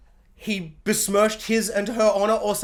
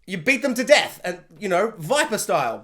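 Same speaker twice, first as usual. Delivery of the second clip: bloody laugh. Retold or imitated. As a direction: cackle through the taunt. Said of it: "spitting up blood and laughing".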